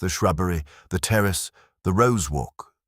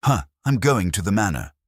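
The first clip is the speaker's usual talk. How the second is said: hoarse; 6 semitones higher, 5 dB louder than usual. A narrator's reading. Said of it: "said hoarsely".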